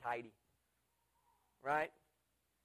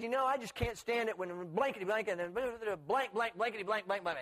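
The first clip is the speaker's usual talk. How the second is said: mock rant, slightly raised pitch; retold angry rant; 4 semitones higher than usual. Friend venting at the car window, mock-angry. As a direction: imitate a cursing tirade, mildly heated. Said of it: "he was mad about something".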